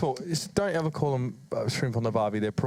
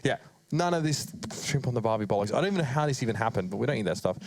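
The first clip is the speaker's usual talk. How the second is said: lower, broad Australian bloke voice; Aussie bloke; 5 semitones lower than usual. Acted. Caster mocking the shrimp cliché, lower broad Aussie bloke voice. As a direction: lay the Aussie on thick, low.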